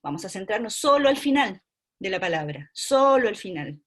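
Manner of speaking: solo ditekan keras dan panjang; stress on solo. Shown as a demonstration. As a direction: tekankan kata solo. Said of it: "teacher stressing solo".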